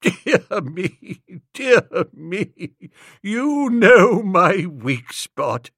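put-on chuckling old man, slowing down; gurgling chuckle. A narrator's reading. Old Bittlesham chuckling at Wooster, chuckling through the words. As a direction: laugh through the words, amused and flattered. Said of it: "gave a sort of gurgling chuckle".

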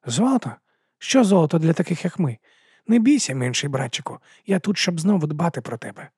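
high, otherworldly wolf voice, mocking then comforting; wolf's inner voice, scornful. Wolf scoffs at Regal's gold and reassures his little brother.

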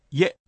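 イエ as a single glided syllable, "ye"; one-breath diphthong. Shown as a demonstration. Teacher corrects learners' timing, イエ in one go. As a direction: say イエ all in one go. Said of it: "一気に発音して".

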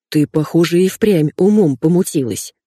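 plain reading voice

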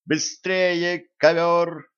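high-pitched, restrained yell. A narrator's reading. Zhenka urges the flying carpet on, yelling. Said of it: "заорала девушка".

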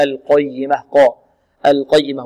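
القيمة with a thick "qo" on the ق; correct heavy qaaf. Shown as a demonstration. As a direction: say القيمة as "al-qoyyimah", full-mouthed. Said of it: "القاف ضخمة".

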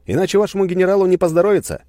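loud, high, fast threat; threatening shout. Acted. Narrator threatens the gunners over the radio, loud and fast. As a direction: warn them hard.

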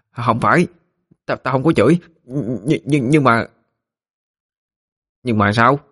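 stammering. Acted. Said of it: "Nói mấy câu kia thì nó bị dấp".

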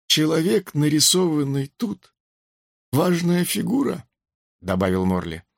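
высокий задумчивый голос Морли; вспоминает, запинаясь на имени. Acted. Морли вспоминает босса банды. (задумчиво, с запинкой)

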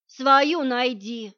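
angry warning. Acted. Jealous fiancé warns rival.

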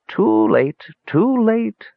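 high little squeak of despair. A narrator's reading. Unseen mage telling the visitors it's too late, squeaking. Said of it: "squeaked the voice".

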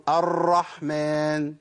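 "الرحمن" drawn out with an exaggerated trill on the ra; over-rolled ra. Shown as a demonstration. Teacher mimics people who over-trill, exaggerated rolled ra. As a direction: hit the ra in "الرحمن" hard and keep it rolling. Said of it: "الناس اللي بتكرر بتعمل إيه".

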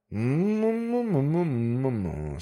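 hum. Acted. The manager hums.

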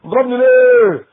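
loud, high, whiny retort; teen shouting at his mother, high and loud; bratty yell at mother. Retold or imitated. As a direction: snap at mom like a spoiled teen. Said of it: "خش بقى على امه".

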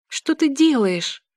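scared, slow whisper; frightened whisper. A narrator's reading. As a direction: whisper it in fear. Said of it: "испуганно шепчу я".

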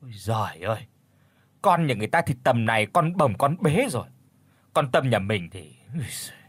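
soft, sighing mother's moan; sad quiet lament.

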